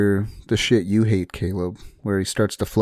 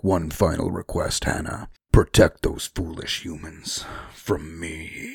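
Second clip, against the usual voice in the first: low, lightly voiced dragon; 4 semitones lower, 4 dB quieter than usual. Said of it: "in that dragon voice".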